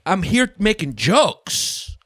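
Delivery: high, drawn-out plea to the crowd; mock exasperated protest. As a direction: stretch it out in mock disbelief. Retold protest to offended crowd.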